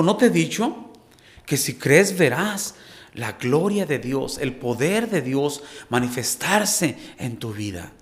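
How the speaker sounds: pregunta de Jesús, empieza más alto; Jesús hablando. Retold or imitated. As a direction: cita las palabras de Jesús con fuerza. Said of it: "Jesús le dijo". (voz de Jesús citada, con arranque alto)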